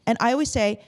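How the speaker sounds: ordinary talk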